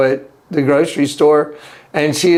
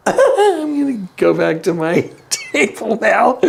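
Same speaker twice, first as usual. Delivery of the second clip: slow, giggling through the words; laughing sheepishly; 5 semitones higher, slower than usual. Retold or imitated. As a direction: laugh it off as you excuse yourself. Awkward exit after praying for Mark.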